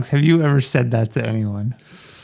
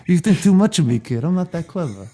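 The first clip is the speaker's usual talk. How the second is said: Brando voice; 5 semitones higher than usual. Retold or imitated. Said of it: "I'm back to Brando".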